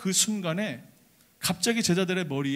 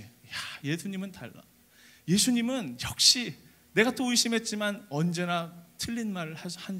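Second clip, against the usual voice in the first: admiring disciple. Acted. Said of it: "이렇게 감탄하는 거예요".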